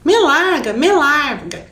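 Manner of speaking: a lightly acted yell from a scared boy; teacher reading a scared boy's yell, mock shout. A narrator's reading. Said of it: "gritava Milton".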